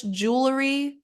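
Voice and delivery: "jewelry" said the American English way; American pronunciation. Shown as a demonstration. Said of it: "either in American English".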